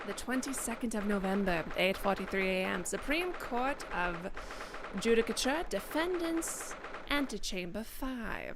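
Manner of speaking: slow, drawn-out caption read; stylized caption reading. Acted. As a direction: stretch out the ends like a formal announcement. Reads on-screen caption in style.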